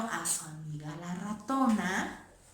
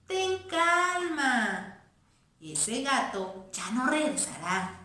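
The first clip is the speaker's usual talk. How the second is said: put-on girl mouse soothing. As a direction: comfort the friend, lightly voiced.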